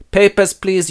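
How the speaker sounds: high, loud official demand; border guard. Acted. Rider halts them entering Rohan, loud official demand. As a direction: call out like a checkpoint guard.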